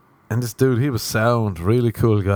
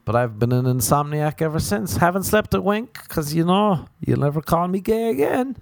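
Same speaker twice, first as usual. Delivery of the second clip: higher, smug gloating rant; rubbing it in his face, higher; mock gloating reply; 6 semitones higher than usual. Gloating at Sean who called him gay, higher.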